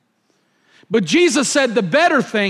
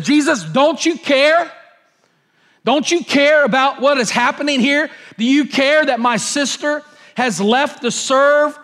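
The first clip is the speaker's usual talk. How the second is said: exasperated complaint. Retold or imitated. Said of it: "she said".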